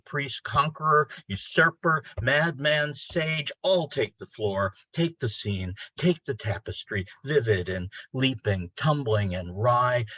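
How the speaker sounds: incantatory poem recital, slow and rising; poetry reading. Acted. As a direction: chant the list like an invocation, building to a cry. Reads his ecstatic ode aloud.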